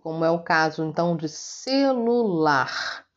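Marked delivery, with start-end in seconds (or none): 1.3-3.1 "celular" drawn out slowly, ending on a strong LAR; teacher demonstrating the stressed LAR in "celular"; syllable by syllable. Shown as a demonstration. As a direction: sound out "celular" slowly for the class. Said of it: "falar com menos força".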